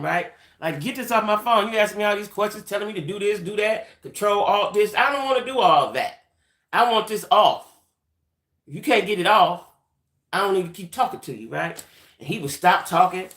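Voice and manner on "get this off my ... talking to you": retold fussing, rattled off demands; mildly heated list of complaints, pressing each one; going at him. Woman fussing at the phone scammer, mildly aggravated. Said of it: "'cause I was just going at him".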